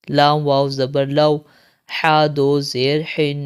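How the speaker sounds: slow, chanted letter-by-letter spelling; Qaida drill recitation. Shown as a demonstration. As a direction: spell each syllable out, then join and stop. (قاعدہ کی ہجے والی قراءت)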